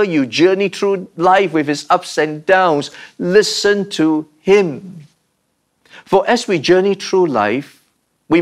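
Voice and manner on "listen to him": slow, stretched "listen to him"; drawn-out exhortation. Real, not acted. Preacher urging listeners through life's ups and downs, slow and emphatic.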